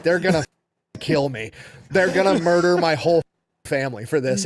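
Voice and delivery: mock wail, loud and pushed through laughter; retold crying. Retelling a captured sailor fearing for his family, mock crying. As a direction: imitate a panicked cry, half laughing. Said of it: "the dude just starts crying".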